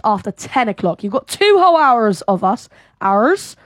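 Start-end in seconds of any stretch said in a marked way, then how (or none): 3.0-3.6 a sudden jokey Irish lilt on one word; mock Irish accent. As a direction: slip into a playful Irish accent. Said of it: "I don't know why I turned, like, Irish".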